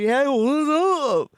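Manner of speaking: high, loud, slow casual greeting; a laid-back radio host saying hey; casual homegirl voice. Pretend. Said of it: "be like".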